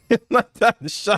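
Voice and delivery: over-the-top mock bragging, high; hyped Draymond. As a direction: crow it out like Draymond. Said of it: "Draymond is like".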